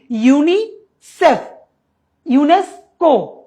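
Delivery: ইউনিসেফ and ইউনেস্কো said slowly as whole words; as one word. Shown as a demonstration. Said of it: "একটি শব্দের মতো উচ্চারণ". (ইউনিসেফ, ইউনেস্কো এক শব্দে ধীরে)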